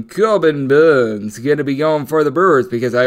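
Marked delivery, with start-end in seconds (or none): 0.0-1.4 slow, hammed-up Old English accent on "Corbin Burns"; deliberately bad Old English accent on "Corbin Burns". Shown as a demonstration. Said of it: "that was a terrible Old English accent".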